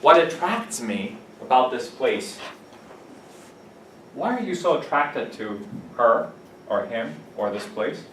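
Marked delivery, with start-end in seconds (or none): 0.0-2.4 slow model sentence. Shown as a demonstration. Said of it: "you say this as a verb".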